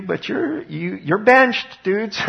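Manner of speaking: high, drawn-out you're benched, dudes; playful excited benched. Retold or imitated. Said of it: "What God says is".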